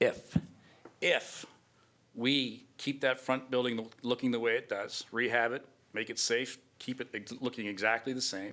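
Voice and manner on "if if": heavy, punched stress on the word if. Speaker weighing whether the town keeps the front building, stress on if. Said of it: "I emphasize the word if".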